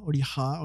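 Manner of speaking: Oliha with an H sound before the final A; Oliha, ending in "ha", as a second guess; tentative pronunciation. Shown as a demonstration. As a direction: try saying Oliha with a breathed "ha" ending. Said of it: "je sais pas comment ça se prononce".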